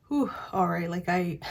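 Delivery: breathless, pausing for air; out of breath. Real, not acted. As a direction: talk while short of breath. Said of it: "I'm feeling, like, out of breath myself".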